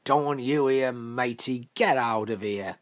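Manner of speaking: put-on children's shouting. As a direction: call out like village kids chasing him off. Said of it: "they're all shouting".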